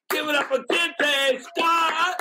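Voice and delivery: host bringing on the guest, booming; big intro. Real, not acted. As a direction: stretch out the name for applause.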